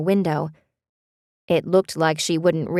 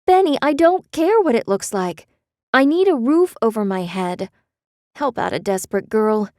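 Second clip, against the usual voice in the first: desperate plea; 5 semitones higher than usual. A narrator's reading. Beth begging.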